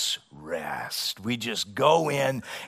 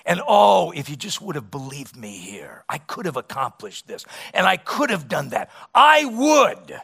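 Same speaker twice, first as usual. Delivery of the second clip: the Lord pleading; 3 semitones higher, 5 dB louder than usual. Retold or imitated. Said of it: "have the Lord say to us".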